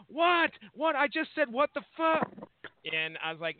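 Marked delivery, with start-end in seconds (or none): 0.1-2.3 put-on indignant kid. Dad mimicking his son arguing with mom, high and indignant. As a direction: play the kid insisting he did nothing wrong. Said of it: "and he goes".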